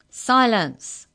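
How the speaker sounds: high, loud commanding shout. A narrator's reading. Clerk silencing mumbling and gasps, shouted. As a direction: shout down a murmuring room. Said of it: "shouted the clerk at the chorus".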